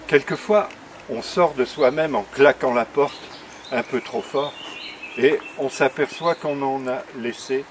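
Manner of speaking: slow, measured reading with long pauses; poem recitation. Acted. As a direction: savour each line of your own verse. Recites his poem on tour.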